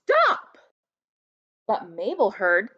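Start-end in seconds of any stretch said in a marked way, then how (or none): 0.0-0.6 yelled. A narrator's reading. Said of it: "Mother yelled".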